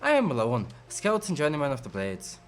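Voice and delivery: lightly put-on Irish scout voice; Irish accent. Scout Alone introduces herself to a traveler, Irish accent. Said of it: "you suddenly have an Irish accent".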